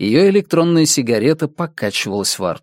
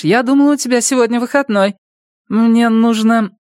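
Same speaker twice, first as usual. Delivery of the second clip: Midge voice; 9 semitones higher than usual. A narrator's reading. Midge voiced, brash friend.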